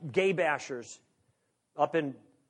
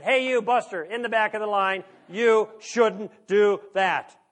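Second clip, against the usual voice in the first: loud and higher, stretching out the last words very slowly; indignant call-out; 3 semitones higher, 7 dB louder, slower than usual. Retold or imitated. Speaker mimics a bank customer scolding a line-cutter, mock indignant shout. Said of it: "And what do they do?".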